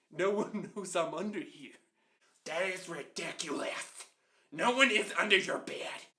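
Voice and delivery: loud, emphatic mock-parent dismissal; imitating a fed-up mother laying it down; exasperated mom. Exasperated mom dismissing child's fear.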